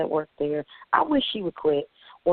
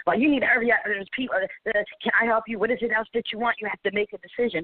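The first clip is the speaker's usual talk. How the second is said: pushy, a touch higher mock employee; imitating rude worker; 4 semitones higher than usual. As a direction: mimic the impatient drive-thru lady. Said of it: "I knew from her voice".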